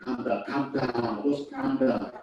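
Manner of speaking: slow, drawn-out mock soothing; imitating a staffer soothing a relative; irritating calm down. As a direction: drag out "calm down" patronisingly. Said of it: "calm down is really irritating".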